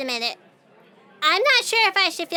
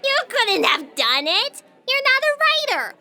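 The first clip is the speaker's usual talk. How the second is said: scoffing laugh; 7 semitones higher than usual. Acted. Scoffing disbelief.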